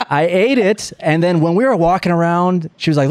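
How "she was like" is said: usual speaking voice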